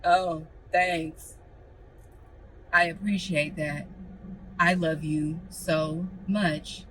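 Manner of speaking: lightly hammed-up lovestruck gush; a hint of a mushy fiancée; mock sappy proposal reply. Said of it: "I'm not just gonna be like".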